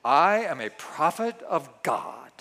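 slow, solemn prophet proclamation. Pretend. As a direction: intone it like a self-styled prophet. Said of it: "I even changed my voice".

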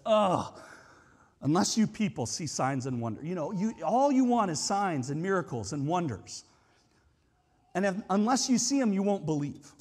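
a mild exasperated sigh, then a rebuke; lightly acted weary scolding, fed-up with the crowd. Preacher voicing Jesus scolding the crowd, mildly exasperated. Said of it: "a tone of exasperation where Jesus says".

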